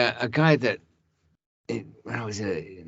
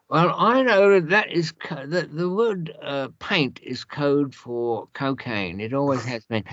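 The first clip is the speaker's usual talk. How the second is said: pompous policeman testimony; 5 semitones higher than usual. Retold or imitated. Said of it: "They, they talk like that".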